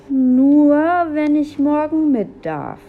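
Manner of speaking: high, loud indignant mimicry; loud, high-pitched scornful repeat; mocking echo. A narrator's reading. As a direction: parrot a little brother in outrage. Julia mockingly repeats brother's condition.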